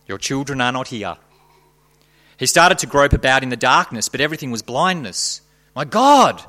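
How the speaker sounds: heightened dramatic narration; dramatic story reading. Acted. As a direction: read it like a gripping horror tale.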